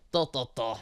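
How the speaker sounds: ordinary talk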